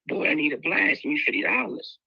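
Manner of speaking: high pleading mom voice, rising; mother begging for drugs. Retold or imitated. Mother on drugs begging her son for money, high and pleading. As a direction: push it up high, a desperate plea.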